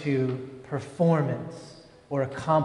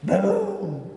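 put-on boy's happy shout; 5 semitones higher than usual. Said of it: "and he just went".

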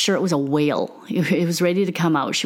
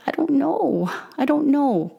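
lightly voiced child, higher pitched; daughter's voice; 8 semitones higher than usual. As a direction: imitate an upset kid answering, pitched up. Retold child answering the mother.

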